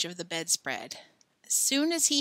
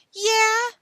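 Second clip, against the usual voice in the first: challenging shout; 9 dB louder than usual. A narrator's reading.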